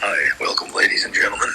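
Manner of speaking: announcer welcoming the crowd; radio host voice. Pretend. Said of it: "You sound like a, a radio person".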